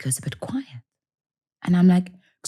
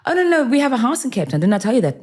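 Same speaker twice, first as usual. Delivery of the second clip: voicing the catfisher; 9 semitones higher, faster than usual.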